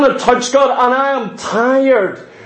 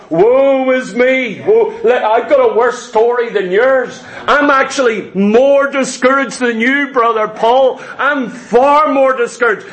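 mock moaning. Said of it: "Everyone's sitting around".

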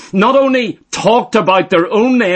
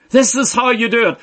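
same words, said faster and lighter; quicker repeat; faster than usual. Shown as a demonstration. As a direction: rush the repeat a little.

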